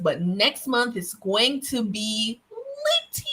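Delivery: drawn-out, playful slang hype; slangy hype. Acted. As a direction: stretch it out, playing it cool and trendy. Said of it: "Let me rewind it".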